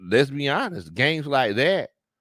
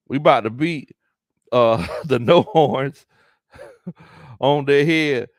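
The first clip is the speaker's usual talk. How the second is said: laughing through it; 6 dB louder than usual. Real, not acted. Host reading a fan's trash talk, laughing loudly. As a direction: giggle your way through the comment.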